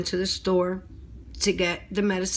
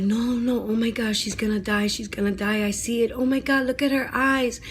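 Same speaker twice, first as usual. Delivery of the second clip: high, loud, frantic pleading; begging her mother to see the danger; panicked child's cry; 5 semitones higher, 3 dB louder than usual. Retold or imitated. Twelve-year-old to mother in the car, panicked high cry. And I'm like.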